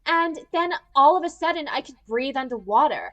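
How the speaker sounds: mock-earnest girl telling her tale; Malia. Mimicking the heroine telling Granddad, mock-earnest. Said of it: "she's like".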